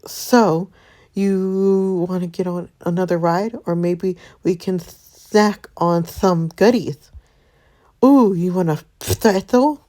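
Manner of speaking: high, bright granny voice; sweet old lady voice. Acted. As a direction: play a sweet grandma. Voicing grandma character.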